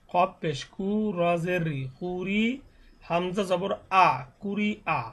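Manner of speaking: slow Arabic spelling drill, vowels held long; teacher's drawn-out syllable drill; spelling drill recitation. Shown as a demonstration. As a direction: recite each syllable measuredly, stretching the final vowel.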